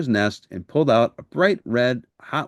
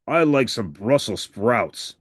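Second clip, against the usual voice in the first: Harry's voice; slower than usual. Acted. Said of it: "said Harry".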